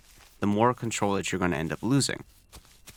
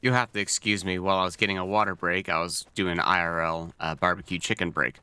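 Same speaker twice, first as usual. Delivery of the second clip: mouth full. Real, not acted. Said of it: "gurgled, mouthful of food kinda talking here".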